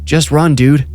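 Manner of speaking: loud high yell while running. A narrator's reading. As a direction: bark at your brother to run. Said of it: "I yell".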